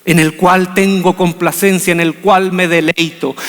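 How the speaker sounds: low, slow, solemn voice from heaven; God speaking, deep and unhurried. Retold or imitated. God speaking to his son, solemn and slow. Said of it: "se escucha una voz que dice".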